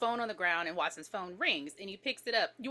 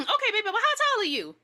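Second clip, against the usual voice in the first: flirty caller; 11 semitones higher, 6 dB louder, faster than usual. Acted. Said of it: "And she's like".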